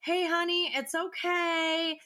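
slow, soothing "hey, honey"; soothing mom voice. Retold or imitated. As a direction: draw it out to calm a crying baby. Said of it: "but I'm trying to be like".

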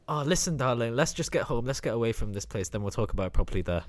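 a lightly voiced husband, soft and soothing; calm the wife down quietly. Husband soothes upset wife, soft reassuring voice. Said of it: "get in character for this".

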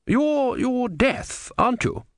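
high, stammering fear; frightened. A narrator's reading. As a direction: gasp it out in dread. Frightened question to Death.

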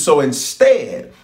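slow, weighty divine warning; voicing God slowly. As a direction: speak as the Lord, drawing it out. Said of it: "He says".

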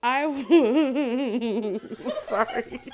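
high, wobbly giggling voice. Real, not acted. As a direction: giggle out of control. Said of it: "I sound like a drunk ghost".

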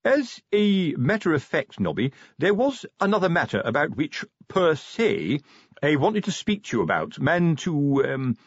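awkward sergeant working up to something; hesitant. A narrator's reading. Sergeant broaching a delicate matter with corporal, hesitant. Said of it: "hesitant tones of a man with something".

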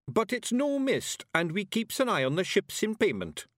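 high Scottish voice, slowing for emphasis; insistent Scots warrior. A narrator's reading. Warrior glares at brother while explaining, insistent Scots. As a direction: correct him firmly in broad Scots.

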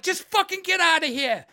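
high, loud exasperated order; acted-out agitated guard; frantic guard shouting. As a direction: send them away in a flustered yell. Guards sending them away, freaking out.

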